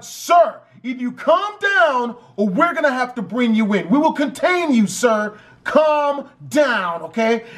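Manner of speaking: firm, insistent mock police warning; stern cop. Police warning the frantic brother, stern. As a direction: lay down the law, lightly acted.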